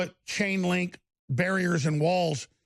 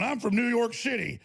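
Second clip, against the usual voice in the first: hammed-up Texas accent, pitched higher; put-on Texas accent; 5 semitones higher than usual. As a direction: play a Texan posing as a New Yorker in thick Texas accent. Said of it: "and with my Texas accent going".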